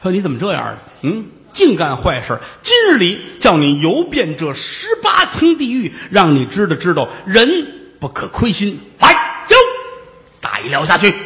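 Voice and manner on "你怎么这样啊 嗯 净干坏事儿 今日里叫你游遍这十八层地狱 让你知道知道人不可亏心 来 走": mock-furious underworld judge passing sentence; angry king of hell. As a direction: berate the sinner like the lord of hell. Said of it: "这阎王爷很生气啊".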